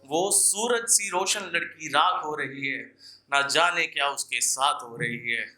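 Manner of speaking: earnest poetic recital, repeating each line for effect; ghazal recitation. Acted. Poet warning listeners in verse, earnest recital. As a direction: plead gently with the crowd through the verse.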